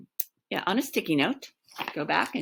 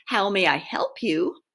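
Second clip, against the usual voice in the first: higher, formal phone receptionist; 5 semitones higher than usual. Acted. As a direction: recite the department name formally. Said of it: "sounding slightly more formal now".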